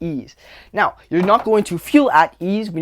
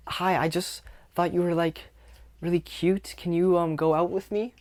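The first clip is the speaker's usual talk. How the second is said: timid, soft asking-out with rising ends; unsure upspeak; 5 dB quieter than usual. Shown as a demonstration. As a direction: ask shyly, as if everything is a question. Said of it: "everything I'm saying is a question".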